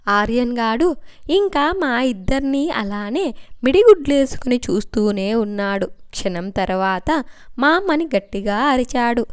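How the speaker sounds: steady storytelling read; story narration. A narrator's reading. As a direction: tell the story to listeners. Reads a novel aloud. (కథ చదువుతున్న స్వరం)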